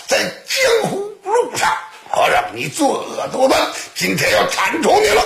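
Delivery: high-pitched storyteller's threat; stern denunciation. Acted. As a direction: condemn the villain, pitch riding high. 张芳 condemns the monk, threatens him. (高声斥责)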